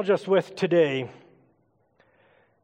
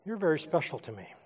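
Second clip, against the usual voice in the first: softer and quicker, pulled back; closed-off delivery; 3 semitones lower, 9 dB quieter, faster than usual. Shown as a demonstration. Preacher demonstrating body language to church, closed-off and soft. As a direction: say it softly, as if closed off. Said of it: "Say it again in a closed position".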